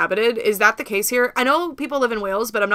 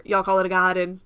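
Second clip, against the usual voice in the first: attempted British accent. Shown as a demonstration. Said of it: "That was not the right accent".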